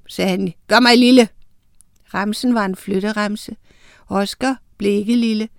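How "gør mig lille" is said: høj, kraftfuld befaling; trylleformular. A narrator's reading. Drage befaler med trylleremse. (højlydt besværgelse)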